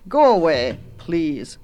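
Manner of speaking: lightly voiced soggy witch; understated waterlogged weariness. A narrator's reading. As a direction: send the child off, sinking on the last word. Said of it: "said the witch soggily".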